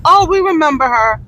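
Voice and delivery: a hint of pleased recognition; imagined others recognizing her. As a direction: quote them with a lifted, knowing lilt. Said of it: "you'll be like".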